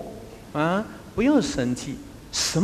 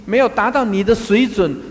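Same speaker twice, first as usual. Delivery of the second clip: 排比强调; 5 semitones higher, 5 dB louder than usual. Real, not acted. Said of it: "排比强调".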